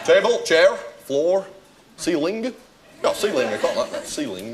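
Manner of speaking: put-on trying on a Northern English accent word by word; sample each word in borrowed Northern English. Customer testing the newly swapped accent, Northern English. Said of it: "let's try it out then".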